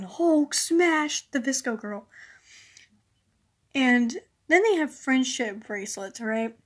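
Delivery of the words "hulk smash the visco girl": slow, lightly voiced Hulk growl; a hint of a raging Hulk, drawn out; She-Hulk voice. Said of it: "a little She-Hulk in my brain going".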